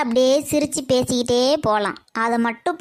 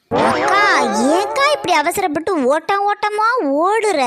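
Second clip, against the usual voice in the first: louder, higher call after her; 5 semitones higher, 3 dB louder, slower than usual. Acted. Girl calls after her hurrying sister, loud call. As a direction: shout to stop her from a distance.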